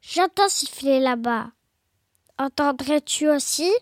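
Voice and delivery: low wondering beast; voix du Gruffalo. Acted. Gruffalo speaks in the story. (monstre à voix grave, intrigué)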